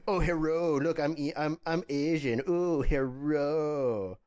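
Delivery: a mocking hint of a stereotype greeting; slow, drawn-out mock hello. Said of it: "were Dominican people going".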